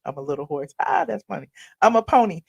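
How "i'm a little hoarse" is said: laughing retake. Shown as a demonstration.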